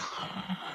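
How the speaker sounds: soft, voiceless sigh; exhausted sigh. Retold or imitated. Retelling Elizabeth collapsing, exhausted sigh. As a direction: imitate conking out with a long sigh.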